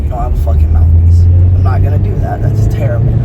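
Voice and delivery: retelling his own loud refusal mid-fight; loud retort. Retold or imitated. Retold firm refusal, loud.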